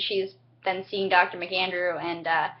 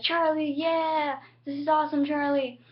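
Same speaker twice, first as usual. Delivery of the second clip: excited greeting; 8 semitones higher than usual. Retold or imitated. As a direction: greet him like a long-awaited friend. Red Banders greet woken Charlie.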